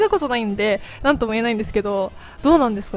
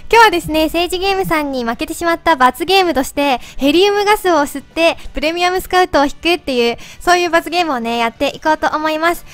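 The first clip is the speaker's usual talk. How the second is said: helium voice; 2 semitones higher than usual. Real, not acted. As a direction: talk after inhaling helium. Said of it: "まだこれ声変わってる？". (ヘリウムガスの声)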